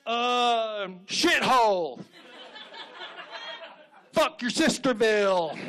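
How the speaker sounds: high, put-on townsperson caricature; small-town local. Townsfolk pitching names at the meeting, comic caricature. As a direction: call out suggestions like a hammed-up local. Townsfolk offering crude name ideas.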